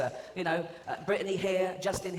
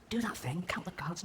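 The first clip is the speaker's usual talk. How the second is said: whisper; 2 semitones higher, 4 dB quieter than usual. Retold or imitated. Secret instruction at the casino.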